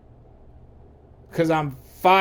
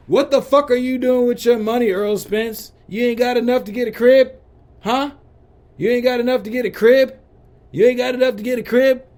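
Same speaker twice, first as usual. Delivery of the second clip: incredulous shouting; 7 semitones higher, 5 dB louder than usual. Acted. Mocking Earl Spence in direct address.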